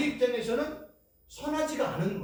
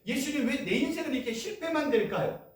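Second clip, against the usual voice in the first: lamenting prayer; 6 semitones higher than usual. Shown as a demonstration. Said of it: "고백과 기도라니까요".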